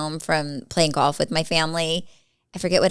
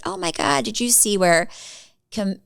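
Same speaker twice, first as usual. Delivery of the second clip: imitating a shocked mom, starting much higher, then slowing right down; breathless mock gossip, stretching out the punchline; mom's gossip; 4 semitones higher, slower than usual. Daughter imitates grandma sharing a fake Camilla video, high then very slow. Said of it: "and she said".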